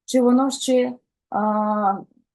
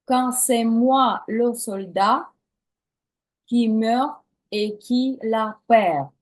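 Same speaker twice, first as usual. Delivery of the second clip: slow, measured French lines; slow model phrase; slower than usual. Shown as a demonstration. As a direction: read each phrase slowly to be echoed. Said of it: "повторюємо слова за мною".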